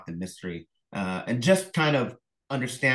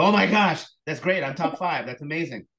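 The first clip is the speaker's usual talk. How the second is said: much higher, louder burst of joy; thrilled; 7 semitones higher, 5 dB louder than usual. Retold or imitated. Author reliving the short-list call, thrilled and loud. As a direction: shriek with delight at the news. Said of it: "You go".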